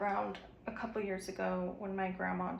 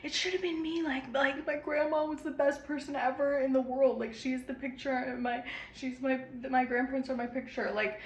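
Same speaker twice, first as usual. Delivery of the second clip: high, loud voice cracking with distress; breaking down; 6 semitones higher, 6 dB louder than usual. Retold or imitated. Mother recalling her breakdown after her grandma died, crying out high and loud. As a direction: let the voice climb and break in despair. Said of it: "breaking down".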